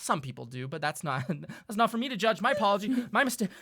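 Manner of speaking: smooth it over, too chipper; nervous cheerful host. Acted. Elf dealer smoothing over murder.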